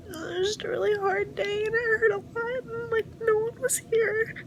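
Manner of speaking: tearful, exhausted and breaking; crying, worn out. Real, not acted. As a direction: cry through the words, worn down. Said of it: "now I can't stop crying".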